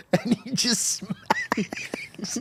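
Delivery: whispered, sneaking up on someone. Retold or imitated. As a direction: hush it like a prank is coming. Sneaky dad about to prank.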